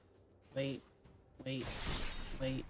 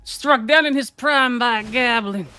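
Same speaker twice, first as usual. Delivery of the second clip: high, slow, louder dramatic eulogy; mock tragic lament; 5 semitones higher, 6 dB louder than usual. Gamer mourning his goblin, hammed-up and dramatic. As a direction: mourn it like a hammy stage tragedian.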